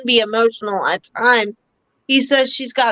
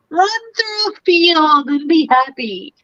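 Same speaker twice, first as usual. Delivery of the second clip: slow, a little higher, like a movie slow-motion run; goofy slow motion; 4 semitones higher than usual. Retold or imitated. Medium playing the brother running through a field, goofy slow motion. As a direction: draw it out like a dreamy slow-motion scene. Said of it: "He's being goofy".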